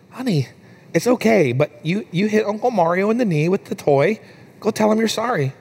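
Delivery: lightly acted parent reassuring, then prompting; coaxing dad. Dad tells hesitant daughter to say sorry, gently coaxing. Dad voiced soothing toddler.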